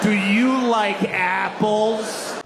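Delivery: slow, triumphant challenge; taunting question. Acted. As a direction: savour each word like a gotcha. Matt Damon's bar taunt, acted.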